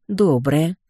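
«Доброе!» with a short amused chuckle; amused smirk. Acted. Heroine answers the booming skeletons, amused smirk. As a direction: toss back «Доброе!» with a smirk. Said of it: "хмыкнула я".

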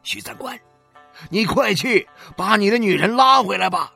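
high, loud and pressing; urgent plea. A narrator's reading. A neighbour urging 许三观 to fetch his wife, loud and urgent. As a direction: hurry him along, alarmed. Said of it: "对许三观说".

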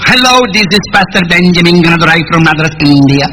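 a hint of an Indian English accent. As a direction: introduce himself as a Madras pastor, lightly accented. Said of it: "Porque así hablan ellos".

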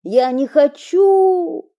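high, slow, desperate shout; a boy fighting to break free. Acted. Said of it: "кричит".

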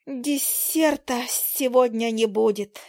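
slow, sighing little fly voice. Acted. Fly sighs that the fireball ruined dessert, slow sigh. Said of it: "вздохнула Жужа".

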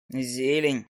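low, unbothered owl; phlegmatic familiar. A narrator's reading. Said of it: "флегматично поинтересовался фамильяр".

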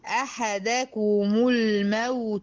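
الموت ending in a clear damma, said slowly; stressing the damma. Shown as a demonstration. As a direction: sound the u at the end of الموت. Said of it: "تو مضمومة هي". (إبراز ضمة الموت)

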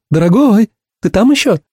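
high woman's voice checking in; Ursula's voice. A narrator's reading. Ursula checking he's still there, high and coaxing.

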